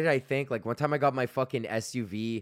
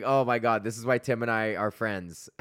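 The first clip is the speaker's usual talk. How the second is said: laughing. Retold or imitated. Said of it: "I was laughing so hard".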